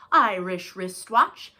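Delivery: slow and deliberate, every sound clear; slow tongue twister. Shown as a demonstration. Teacher modelling a tongue twister for kids, slow. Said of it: "I'm gonna say some silly words".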